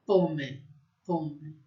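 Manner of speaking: pomme with an open o; French pomme. Shown as a demonstration. Teacher drilling open o in pomme. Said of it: "o O aberto".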